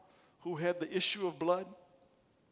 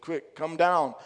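calling out; 9 dB louder, slower than usual. A narrator's reading. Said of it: "he said".

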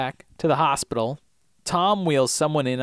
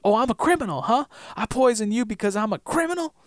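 Sawyer sneer; 9 semitones higher than usual. Retold or imitated. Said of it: "And Sawyer says".

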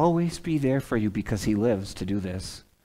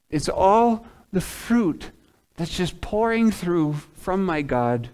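earnest preaching; 6 semitones higher, 4 dB louder than usual. Real, not acted. Preaches with raised pitch.

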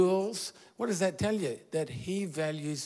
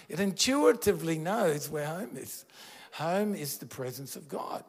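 usual speaking voice

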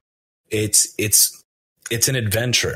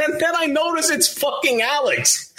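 excited shouting. Real, not acted. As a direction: shout it out, all worked up. Excited retelling climax.

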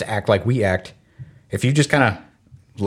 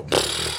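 soft, quiet puff of air through the lips; dismissive French "pff"; 8 semitones lower, 9 dB quieter than usual. Shown as a demonstration. Imitating how Belgian French speakers brush something off with a "Pff". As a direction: blow out a low scornful "Pff". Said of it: "they would make this sound".

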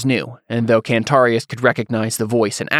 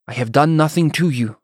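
put-on higher-pitched Taconi accent, confused and angry; thick Taconi accent; 5 semitones higher than usual. A narrator's reading. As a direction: protest in a thick Taconi accent, baffled and indignant. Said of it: "said in his thick accent, sounding as confused as he was angry".

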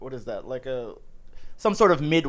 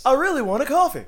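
playful pitch voice; 9 semitones higher than usual. Pretend. Joining the Seinfeld pitch bit.

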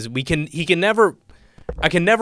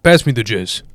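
tag retold deadpan dad; 2 semitones lower, 6 dB louder than usual. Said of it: "says weird shit but acts like it's normal".

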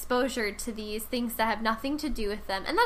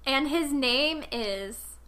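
slow build-up; 2 semitones higher, slower than usual. Acted. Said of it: "wait for it".

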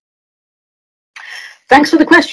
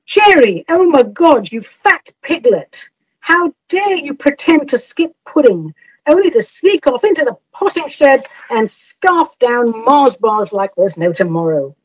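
mock judgmental rant; 2 semitones higher than usual. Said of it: "Now, you didn't say".

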